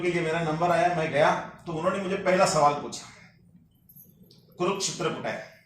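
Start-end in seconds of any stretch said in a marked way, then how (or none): 4.6-5.5 understated, lower-pitched quiz question; low, quiet question. Retold or imitated. Interviewer puts his first question to the candidate, quietly. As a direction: imitate an interviewer asking softly.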